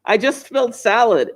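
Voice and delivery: mock toddler yell. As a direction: lightly imitate a toddler calling from another room. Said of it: "She yells".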